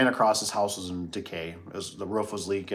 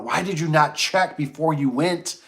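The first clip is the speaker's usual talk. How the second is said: self-scolding; 6 semitones higher, 4 dB louder, slower than usual. Retold or imitated. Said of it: "I went".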